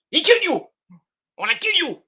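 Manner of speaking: high, loud, hammed-up ranting; mock-furious announcer screaming; mock commentator yell. Ahmed on the mic, yelling in a high mock rage. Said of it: "He goes".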